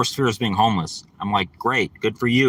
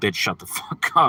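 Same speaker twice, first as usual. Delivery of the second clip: put-on mutter under the breath, lower; 3 semitones lower than usual. Retelling what was said to a loud woman at work: imitating muttering under breath. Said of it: "under my breath".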